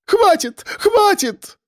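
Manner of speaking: отчаянный высокий крик; крикни, чтобы остановить драку; закричала. A narrator's reading. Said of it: "вдруг закричала Евгения". (Евгения кричит, останавливая драку)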